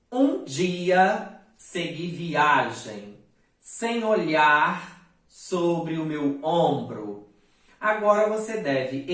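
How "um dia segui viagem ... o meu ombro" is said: slow, measured reading of verse; poem recitation. Shown as a demonstration. Teacher reciting a poem slowly for the class. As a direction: read the lines like a poem. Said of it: "Então, olha só".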